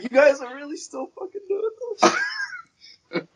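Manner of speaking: mock disbelief. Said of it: "Be like".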